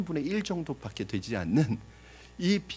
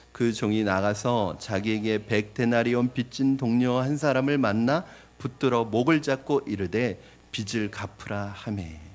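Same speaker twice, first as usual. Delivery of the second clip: scripture reading; 6 dB louder than usual. Acted. Pastor reading verse twenty-eight to the congregation, solemn and loud.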